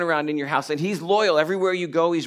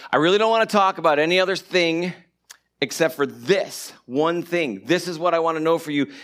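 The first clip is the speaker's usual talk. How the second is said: insistent, slowing on "this one thing"; firm retold insistence, weight on "this"; emphatic; 3 dB louder than usual. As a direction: drive home "this one thing". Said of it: "it's very emphatic".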